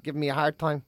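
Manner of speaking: low-key, matter-of-fact pig; indifferent pig. Acted. Pig excusing itself to its owner, unbothered. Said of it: "a pig would just be like".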